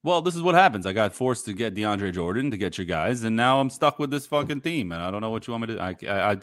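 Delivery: put-on aggrieved Brooklyn accent slipping in; Brooklyn-New Zealand accent. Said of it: "the Brooklyn accent all of a sudden".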